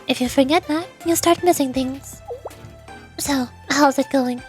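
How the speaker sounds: lightly voiced, poised president character; composed student president. President checking on the visitor's work, lightly voiced composure.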